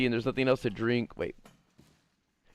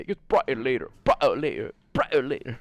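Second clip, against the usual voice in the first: Andrew Tate impression; 3 dB louder than usual. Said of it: "I sound like, like Andrew Tate".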